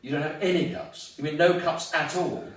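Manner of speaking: mock disbelief at no cups; incredulous. Retold incredulous friend about cups.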